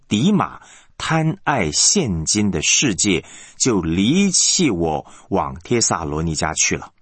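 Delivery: slow, lightly voiced sorrowful quote; mild retold lament. Preacher quotes Paul's letter on being deserted, mildly sorrowful. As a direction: dwell on the words with a touch of regret. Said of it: "他很感慨、很感伤地说了一句话".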